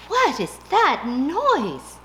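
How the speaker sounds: high, slow mouse voice; a puzzled little mouse asks slowly; sleepy mouse wondering aloud; mouse asking. Acted. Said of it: "asked the mouse".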